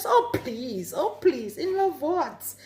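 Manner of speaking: laughing denial. Retold or imitated. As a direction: laugh it off in disbelief. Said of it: "I mean".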